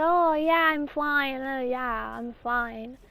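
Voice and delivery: lightly voiced brother brushing it off; imitated little brother. Little brother after falling on his head, lightly imitated dismissive voice. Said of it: "that's his voice".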